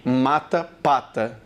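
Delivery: "Mata, pata", contrasting M and P; minimal pair demo. Shown as a demonstration. Teacher repeating the pair for students, careful demo. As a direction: model "Mata" rising, "pata" falling. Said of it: "Muito parecidas também".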